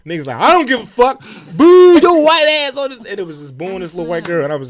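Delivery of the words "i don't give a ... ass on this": imitated heckling. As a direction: jeer like a merciless heckler. Heartless crowd heckling, retold.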